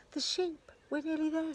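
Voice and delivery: high, pleased whisper-call; eager thief. Acted. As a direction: sure they're nearly there. Thief confident near goal.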